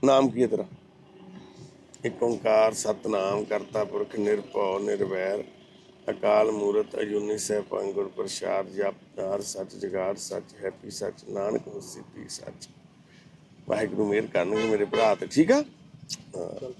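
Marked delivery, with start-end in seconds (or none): 2.0-12.7 slow, low, hushed recitation fading softer toward the end; prayer recitation. Real, not acted. Praying over the homeless brother, slow hushed recitation. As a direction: recite the prayer slowly and devoutly, voice sinking.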